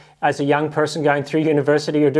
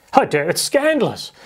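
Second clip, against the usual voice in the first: higher, mock-shocked gasp of outrage; scandalized; 6 semitones higher than usual. Disciples in a fainting fit, mock scandalized. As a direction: play a clutching-pearls fit. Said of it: "having fainting fits about it".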